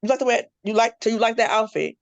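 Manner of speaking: high, teasing question about the outfit; mock a friend's outfit with a lifted, playful voice. Teasing a friend about her outfit, mock playful question. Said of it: "But I'm gonna be like".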